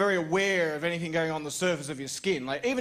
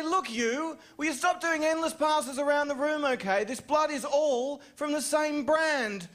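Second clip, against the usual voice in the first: negotiating with mosquito; 3 semitones higher than usual. Retold or imitated. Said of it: "I would say".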